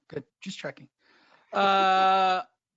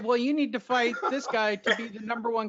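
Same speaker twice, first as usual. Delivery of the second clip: mocking official; 3 semitones higher, 4 dB louder, faster than usual.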